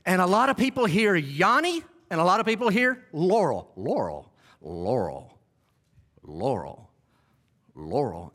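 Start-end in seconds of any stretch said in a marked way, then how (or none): 3.8-8.3 very low, softer repeated word; imitating looped audio. Preacher showing what a lot of people hear, deep looped-audio imitation. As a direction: mimic a deep recording stuck on repeat. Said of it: "keep saying this little phrase over and over".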